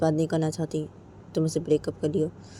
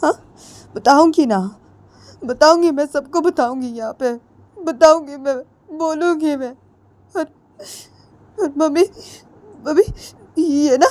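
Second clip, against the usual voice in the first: furious threat; 10 semitones higher, 6 dB louder than usual. Acted. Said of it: "Ritu बोलती".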